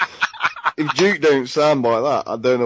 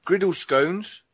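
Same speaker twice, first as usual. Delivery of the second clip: indignant; 9 semitones higher than usual. Real, not acted. Defending scones in a food argument.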